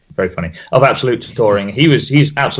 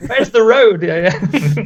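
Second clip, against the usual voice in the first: mock confused; 6 semitones higher, slower than usual. Mocking friend who floats.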